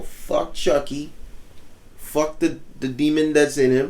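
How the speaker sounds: high, loud and slow, pumped up; hyped-up rant. Real, not acted. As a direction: yell it like you're ready to fight a demon. Hyped rant about beating Chucky.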